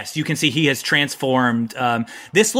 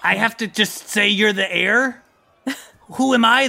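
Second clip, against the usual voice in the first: puzzled, higher-pitched turtle; baby turtle character; 7 semitones higher than usual. Acted. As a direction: question it in a high, bewildered voice. Turtle king asks for clarity.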